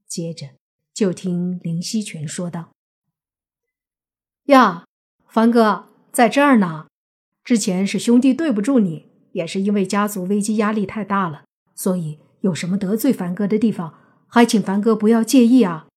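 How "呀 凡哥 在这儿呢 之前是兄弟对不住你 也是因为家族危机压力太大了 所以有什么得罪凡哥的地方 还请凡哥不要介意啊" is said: lightly voiced young man making amends; butter up the man he offended; fawning, apologetic brother.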